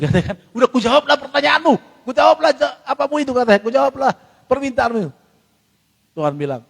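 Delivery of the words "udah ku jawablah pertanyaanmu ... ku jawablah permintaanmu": voice of God. Retold or imitated. God answers the praying believer.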